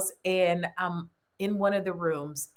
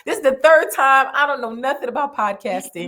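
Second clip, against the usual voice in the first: mock exasperated giving in; 2 semitones higher, 6 dB louder than usual. Telling how she gave in to God, louder. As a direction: throw up your hands to the Lord.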